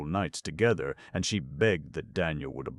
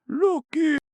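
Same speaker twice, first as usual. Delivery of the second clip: gruff braggart opener; 10 dB louder than usual. A narrator's reading. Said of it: "he began".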